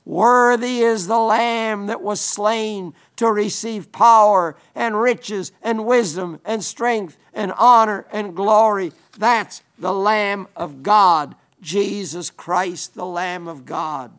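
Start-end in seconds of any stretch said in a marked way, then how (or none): 0.1-8.9 loud preached proclamation of praise; quoting a heavenly chorus in a loud preaching voice. Retold or imitated. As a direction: proclaim it strongly, spoken rather than sung. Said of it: "They're singing with a loud voice".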